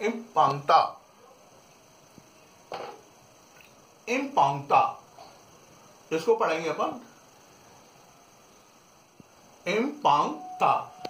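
इम्पांगता, nasal "pang", ending on ता; French "important" as इम्पांगता; French pronunciation. Shown as a demonstration. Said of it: "इसमें पढ़ेंगे अपांग".

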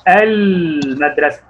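المدرسة read slowly, syllable by syllable; slow drawn-out reading. Shown as a demonstration. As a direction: stretch out المدرسة as a reading model. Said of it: "زي كده ما أقول إيه؟". (قراءة بطيئة ممدودة)

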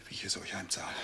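soft, sinister whispered vow; husband whispering his revenge plan to his wife; menacing whisper. Acted.

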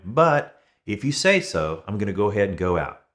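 a fisherman reluctantly humoring Jesus; reluctant agreement. Retold or imitated. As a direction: give in grudgingly, stretching the words. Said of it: "He kind of reluctantly trusts Jesus".

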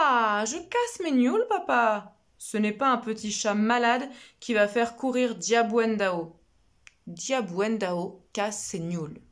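put-on stubborn girl. Little girl refusing her father, carefree and stubborn. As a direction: wave off the danger with pride.

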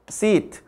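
Seat with a long drawn ee; long vowel. Shown as a demonstration. Teacher showing students how to say Seat, long vowel. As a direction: stretch the ee in Seat. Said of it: "seat 이렇게 좀 길게 읽어요".

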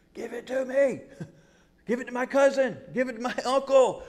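high-pitched mock pleading; eager clamouring. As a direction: beg excitedly, piling up the requests. Acting out clamour for a cure.

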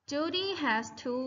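slow, clear model phrase; slow model reading. Shown as a demonstration. Teacher modelling the phrase for students, slow. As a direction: say it slowly for them to copy. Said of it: "repeat after me".

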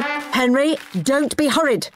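high, cross parental telling-off; snapped rebuke. A narrator's reading. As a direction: snap at the boy. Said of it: "snapped Dad".

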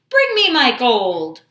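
loud, falling storybook roar; giant's roar. A narrator's reading. Greedy giant demands his gold from the cook, roaring. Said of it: "roared the giant".

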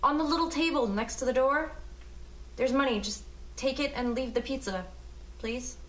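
high, anxious voice, softening at the end; high and uneasy, trailing into a small please; anxious pleading. Acted. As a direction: plead nervously from behind a door. Pleading through door with delivery man.

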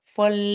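เฟลเล split into เฟ and เล; pronunciation model. Shown as a demonstration. Teacher prompts a student to repeat, syllables split. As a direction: sound เฟลเล out with a distinct first เฟ. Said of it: "ไหนลองออกให้ครูฟังสิ".

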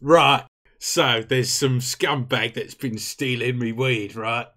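brief the troops like Mick Dundee; Australian briefing. Acted. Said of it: "Why did you become an Australian?".

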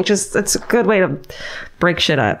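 ordinary delivery

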